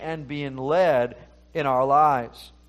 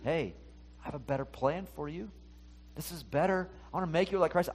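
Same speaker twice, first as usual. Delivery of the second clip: voice of Holy Spirit; 4 semitones higher than usual. Acted. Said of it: "it's also the Holy Spirit saying".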